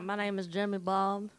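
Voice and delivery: lightly done Southern US accent. Shown as a demonstration. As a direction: introduce yourself with a Southern accent. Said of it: "you can do Southern though".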